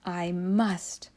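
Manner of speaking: whispered to herself; a resolute whisper; determined whisper. A narrator's reading. Koala Lou whispering to herself before the climb, determined.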